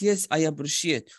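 mock casual reply; parroting the informal phrase; lightly imitated informal reply; imitating the student. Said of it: "So this is a bit informal".

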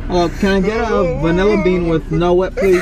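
put-on amateur British accent at the drive-through; hesitant mock British; attempted British accent. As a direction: order in a badly faked British accent. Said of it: "act like I'm British".

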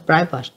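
private, first syllable stressed with a falling end. Shown as a demonstration. Teacher repeating private for students, first-syllable stress. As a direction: drop the second syllable of private below the first. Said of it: "nhấn âm đầu".

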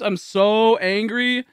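slow, drawn-out seething; angry. Real, not acted. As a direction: stretch it out in exasperation.

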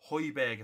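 Højbjerg as "HOY-berg"; careful "HOY-berg" for Højbjerg; attempted correct pronunciation. Real, not acted. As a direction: say Højbjerg with an "oy" vowel. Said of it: "I think that's how you pronounce his name".

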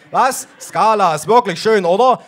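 high, loud enthusiastic policeman; excited cop. Acted. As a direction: gush about the bar.

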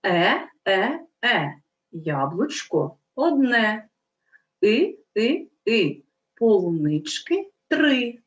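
slow, clear chanting of tongue twisters; tongue twister recitation. Shown as a demonstration. Teacher reading tongue twisters aloud to children. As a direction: recite each line slowly and clearly. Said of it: "Прочитаємо чистомовки".

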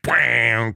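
mimicked fuzz bass twang; imitated bass note. Describing a song's last note, imitated fuzz bass. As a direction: sound out the ringing bass note.

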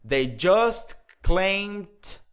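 very slow, "climbed" said alone with a t ending; slow model phrase. Shown as a demonstration. Teacher slowly showing how "climbed" sounds on its own. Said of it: "climbed é a pronúncia sozinha".

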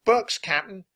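high, loud pirate henchman; high-pitched sidekick shout. A narrator's reading. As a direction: call a report down to the captain. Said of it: "Pinky shouted down".

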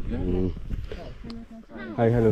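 panting from the climb; breathless while hiking uphill; out of breath. Real, not acted. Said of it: "Why are you panting?".

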